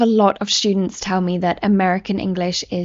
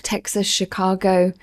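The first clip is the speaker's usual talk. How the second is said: ordinary talk, nothing marked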